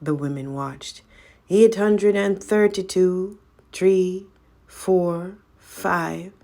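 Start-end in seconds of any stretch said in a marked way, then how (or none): 1.5-6.3 counting. Acted. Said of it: "she counted".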